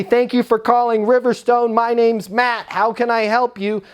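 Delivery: mock the canned greeting; sing-song phone greeting. Shown as a demonstration. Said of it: "if I answer the phone and say".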